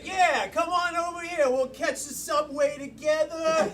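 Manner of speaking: put-on casual New York accent. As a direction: talk like a New Yorker offering a ride. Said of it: "first thing I heard was New York".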